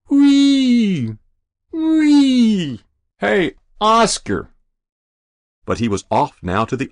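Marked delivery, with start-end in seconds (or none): 0.1-2.8 high, loud whooping shriek; engine scream. Acted. Boy on the roof shrieking as he runs, high loud whoop. 3.2-4.5 slow, high, loud call; winded yell. Acted. Winded fireman yelling up at the boy, slow loud call.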